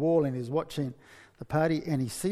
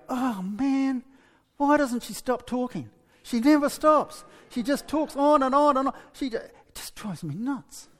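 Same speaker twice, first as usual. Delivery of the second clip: higher, louder, fed-up whining; exasperated husband; 9 semitones higher, 4 dB louder than usual. Retold or imitated. Preacher voicing the husband fed up with endless chatter. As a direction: complain like a worn-out husband. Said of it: "he'll be going".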